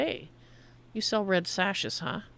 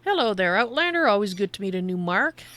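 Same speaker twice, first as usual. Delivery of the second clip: secretive raspy sales murmur; 4 dB louder than usual. Acted. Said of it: "A shady, shady trader".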